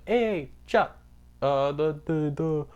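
high-pitched, hammed-up Italian accent; terrible Italian accent. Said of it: "that was a terrible Italian accent".

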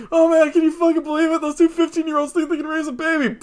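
high, incredulous gossiping voice; mocking gossip voice. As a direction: scoff like a snickering adult. Mocking adults laughing.

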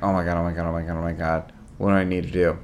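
whisper-panic under the covers; quiet worried loop of oh my God; anxious muttering. Retold or imitated. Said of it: "And I'm like".

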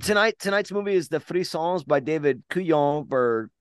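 announcer voice. Acted. Repeats announcer line.

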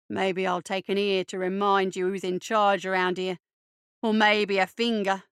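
a hint of swaggering tormentor; lightly voiced bully. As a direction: threaten with a touch of relish. Bully Eddie threatens with knife.

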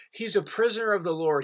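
ordinary talk, nothing marked

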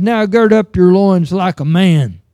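loud, commanding voice of the Lord; God speaking from the storm. Acted. Preacher voicing God to Job, loud and commanding. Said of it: "answered Job out of the storm and said".

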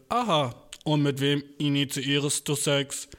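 slow, stiff robotic drone; slow deadpan robot question. Retold or imitated. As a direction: interrogate like a machine. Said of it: "seid ihr beides Roboter?".

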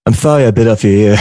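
put-on boxer impression; Mike Tyson. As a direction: do a celebrity boxer apologizing in character. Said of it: "give us your best Mike Tyson impression".

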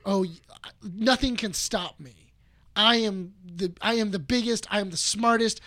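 lightly acted overconfident villain; mildly grandiose, self-important villain; Doctor Doom. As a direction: boast with a touch of exasperation. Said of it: "he's overly confident".

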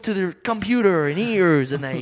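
mock movie trailer voice. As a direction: ham up a blockbuster voiceover.

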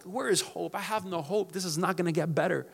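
soft, hopeless murmur; despairing. Retold or imitated. Pastor voicing a hopeless believer like Job, soft despair. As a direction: let the hope drain out of it. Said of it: "we're like Job".

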